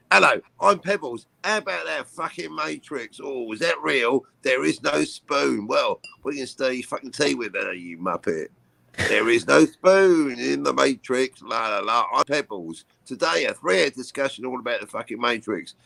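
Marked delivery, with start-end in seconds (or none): 0.1-5.7 mock podcast host. Mocking a smug podcaster to friends, lightly voiced. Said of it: "it'll be like this". 9.1-15.8 mock podcast host. Mocking a smug podcaster to friends, lightly voiced. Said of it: "it'll be like this".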